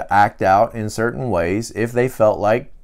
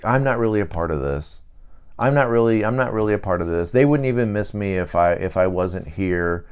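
lonely inner voice; 4 semitones lower, 4 dB quieter, faster than usual. Acted. Four's lonely inner thoughts.

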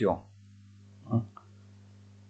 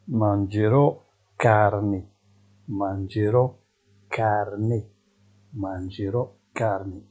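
slow teaching model; much slower than usual. Shown as a demonstration. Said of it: "teacher models slowly".

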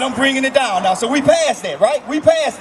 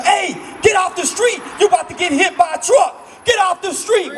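higher warning yell; mock scream; 4 semitones higher than usual. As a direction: call out to someone in danger. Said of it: "you gonna be screaming".

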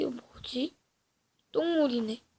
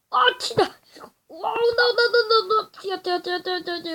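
frantic, high panicked yelling; panicked shout; 6 semitones higher, faster than usual. Real, not acted. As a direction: yell in sudden panic. Panics as giant appears. (겁에 질려 소리치며)

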